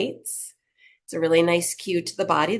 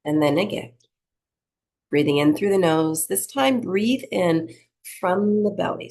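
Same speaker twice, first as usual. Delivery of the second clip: unhurried meditation-teacher delivery; guided breathing meditation. Acted. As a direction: lead them gently through each breath, leaving space.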